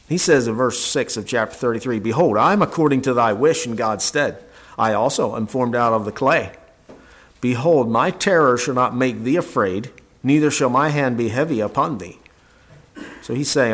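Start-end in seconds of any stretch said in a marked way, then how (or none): 2.0-12.2 scripture reading. Acted. Reads Elihu's words aloud.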